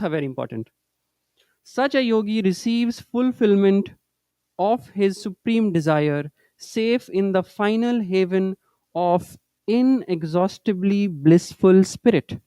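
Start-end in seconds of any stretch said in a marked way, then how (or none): 1.6-12.4 slow, measured recitation of a holy text; teacher reciting Master's words to students, slow and solemn; scripture reading. Acted. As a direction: read each phrase slowly and with reverence. Reads scripture quotation slowly.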